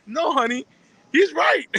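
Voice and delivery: giggling through the wife's words; wife's line, laughing. Retold or imitated. Retelling the wife correcting her husband, laughing. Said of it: "his wife said".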